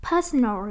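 "personal" with the weight on PER; stress on first syllable. Shown as a demonstration. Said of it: "âm một nè".

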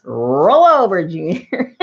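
"roll" drawn out slowly and loud; playful dog command. Acted. Mock call to her dog.

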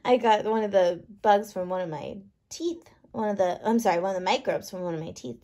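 plain reading voice

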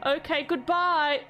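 slow, mock-tearful farewell; mock sad goodbye. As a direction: drag the goodbye out as if sorry to leave. Saying farewell to a game character.

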